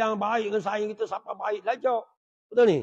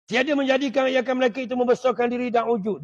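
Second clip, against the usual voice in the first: raised, level recitation; reading from religious text; 4 semitones higher, 4 dB louder than usual. A narrator's reading. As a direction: read the passage out firmly on a high line. (bacaan kitab dengan nada tinggi)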